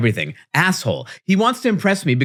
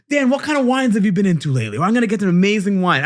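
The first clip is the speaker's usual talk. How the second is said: eager host; 5 semitones higher, much faster than usual. Retold or imitated. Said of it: "He's like".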